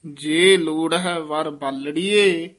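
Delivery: ਜੇ ਲੋੜ ਹੈ ਵਰ ਬਾਲੜੀਏ slowly, then a full stop; pause after ਬਾਲੜੀਏ. Shown as a demonstration. Teacher marks the pause for the student, slow. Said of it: "ਇੱਥੇ ਵਿਸਰਾਮ ਹੈ".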